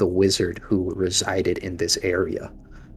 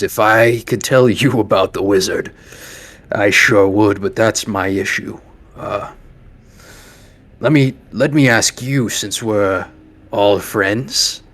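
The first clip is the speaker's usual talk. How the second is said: lightly voiced leader, louder on the opening words; wry camp leader; 3 dB louder than usual. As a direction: play a leader sidestepping, then probing the visitors. Game master voices camp leader.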